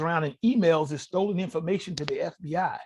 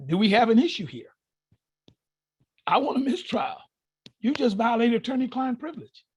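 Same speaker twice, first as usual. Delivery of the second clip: higher, forceful triumphant challenge; indignant demand; 4 semitones higher than usual. Retold or imitated. Demanding a mistrial from the judge, higher and forceful. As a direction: press the judge hard.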